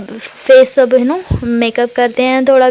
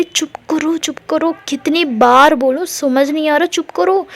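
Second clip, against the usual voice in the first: exasperated hushing; 4 semitones higher than usual. Retold or imitated. Tara hushing her embarrassed wife in front of friends, urgent and higher. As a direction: hiss at her to shut up, pitched up. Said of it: "तो तारा बोल रही".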